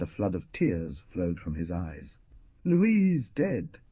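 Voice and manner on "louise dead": high, acted pained exclamation; broken by pain. A narrator's reading. Husband taking in his wife's death, high pained outcry. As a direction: raise the voice high in grief. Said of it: "in a voice broken by pain".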